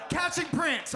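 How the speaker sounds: high, indignant repeat of CATCHING PRINT; CATCHING PRINT cried out high and falling; exasperated outcry. Real, not acted. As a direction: throw CATCHING PRINT back in disbelief. Repeats it in protest.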